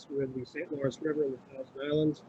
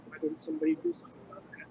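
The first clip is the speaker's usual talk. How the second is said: exasperated quote; faster than usual. Retold or imitated. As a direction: blurt out the gripe quickly. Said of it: "you come back and say".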